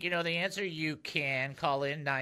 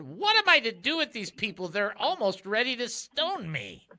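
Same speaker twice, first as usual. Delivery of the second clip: raised, higher mock plea, slowing to a finish; acted crying out; 5 semitones higher than usual. Leader of Israel to the Lord, acted crying out. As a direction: cry it out like a beleaguered leader. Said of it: "cried out to the Lord".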